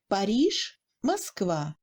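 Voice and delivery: short first A in "Paris"; reduced unstressed A. Shown as a demonstration. Teacher comparing A in "Paris, Moskva", short unstressed A. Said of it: "Le A dans le mot Paris est plus court".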